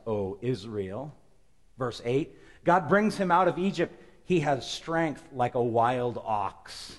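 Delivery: slow, solemn reading; scripture reading. Acted. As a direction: declaim the verses.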